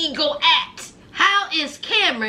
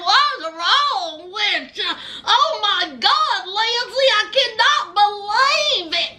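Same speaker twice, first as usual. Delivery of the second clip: country twang, mock homegirl; 4 semitones higher than usual. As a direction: exaggerate a shocked country twang. Mimics the country homegirl reacting.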